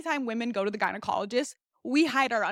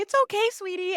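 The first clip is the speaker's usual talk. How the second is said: high-pitched mock doctor cooing; sweet reassurance; 9 semitones higher than usual. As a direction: mimic a doctor sweetly soothing a patient. Imitates doctor comforting patient.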